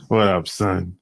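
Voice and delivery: low New York street greeting; New York accent. Retold or imitated. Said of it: "That's how they talk".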